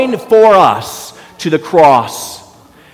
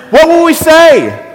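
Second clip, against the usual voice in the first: calling out; 11 semitones higher, 5 dB louder than usual. Real, not acted. Pastor calling out to congregation.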